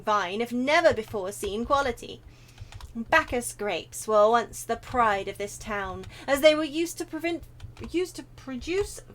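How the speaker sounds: grand, deliberate character storytelling; theatrical, courtly gentleman; proud wine lover. Acted. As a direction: recount the town's lost glory. Reads a game character's dialogue.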